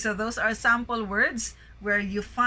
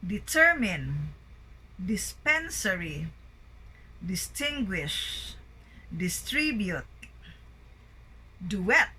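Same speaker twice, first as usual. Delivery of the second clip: each word like "determine" peaking on its second syllable; second-syllable stress. Shown as a demonstration. Teacher drilling the list, second syllable stressed as in "dispensary". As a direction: list reading, "duet" with ET stressed. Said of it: "primary stress on the second syllable".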